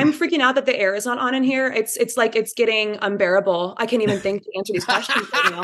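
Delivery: mock-flustered British accent; a singer's British accent. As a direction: play a British-accented star unable to cope. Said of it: "had the British accent and she was like".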